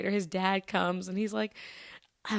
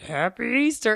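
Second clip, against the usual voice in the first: loud, higher gruff greeting; gruff old man; 4 semitones higher, 7 dB louder than usual. Retold or imitated. Old guy to kids at the mall, gruff shout. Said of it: "then with his little gruff".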